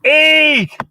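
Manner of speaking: very high, loud, drawn-out scream; screaming little girl. Acted. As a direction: shriek the order like a child in a tantrum. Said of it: "And she screams".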